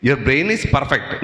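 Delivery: very slow, every word weighted, stress on means; slow emphatic refrain. Acted. Teacher stressing the key line to students, slow and weighty. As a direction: drive home "It means your brain is perfect." word by word.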